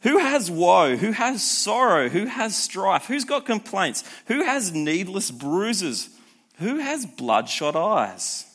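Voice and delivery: slow, lifted, dramatic scripture reading. Acted. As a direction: read each question like a grim warning. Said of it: "He says".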